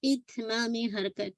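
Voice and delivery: इतमाम हरकत slowly, each short vowel fully sounded; every vowel completed. Shown as a demonstration. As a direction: give each syllable of इतमाम हरकत its due. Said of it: "हरकत को तमाम करना". (इतमाम हरकत, हर हरकत पूरी करके)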